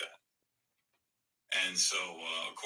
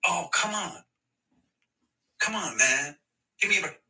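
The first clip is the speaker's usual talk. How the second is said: high, louder mock protest; mocking whiny complainer; 8 semitones higher, 5 dB louder than usual. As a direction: whine "come on" like the wronged party. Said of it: "And then they go".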